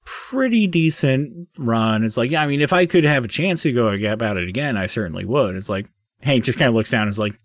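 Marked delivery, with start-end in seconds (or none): 0.0-5.5 raised little gnome voice; gnome spirit. Acted. Gnome spirit reminiscing to the gatekeeper, higher voice. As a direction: play the gnome, higher and lighter. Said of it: "And he goes".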